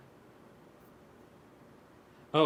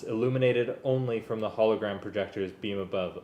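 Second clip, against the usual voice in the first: story narration; 9 dB louder than usual. A narrator's reading. Reads Star Wars story aloud.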